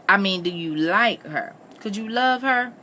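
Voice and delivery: rising, insistent questioning. A narrator's reading. Missus Moss pressing Richard about Bess, insistent. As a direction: push for an answer, pitch climbing. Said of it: "she asked insistently".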